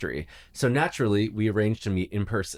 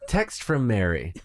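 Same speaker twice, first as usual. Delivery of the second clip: slow text-to-speech announcer; robot voice. Acted. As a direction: read like a car's speech system. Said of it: "in a robotic voice".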